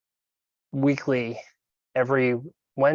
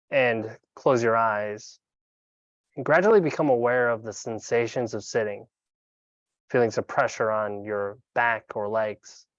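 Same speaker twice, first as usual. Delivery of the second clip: calm, unhurried meditation guide with long pauses; guided meditation. Acted. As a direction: guide them gently into breath awareness, leaving room between phrases.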